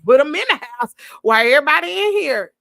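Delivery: quick, loud take on daddy's reasoning; a hint of a breezy father; voicing daddy. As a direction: play dad as careless, matter-of-fact. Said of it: "daddy figured".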